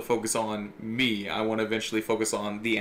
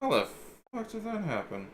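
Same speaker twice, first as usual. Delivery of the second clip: baffled high exclamation; 11 semitones higher, 4 dB quieter than usual. Real, not acted. Baffled by software glitch.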